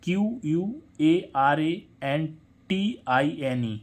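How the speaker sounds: letters spelled out one by one, slowly; slow spelling. Shown as a demonstration. Teacher spells the word for the class, slowly. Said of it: "अब इसमें देखें".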